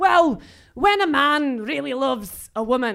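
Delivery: clumsy, mangled, bad put-on Glaswegian accent. Retelling a father's answer at a supermarket checkout: bad imitation of a Glaswegian accent. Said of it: "I'm really murdering his accent here".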